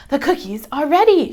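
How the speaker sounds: a cheerful call that the cookies are done; Grandma shouting. A narrator's reading. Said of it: "shouts Grandma".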